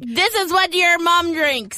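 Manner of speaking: slow, sly put-on voice; a sleazy seller leaning in slowly; shady mock seller. Seller coaxing a kid to drink, slow and sly.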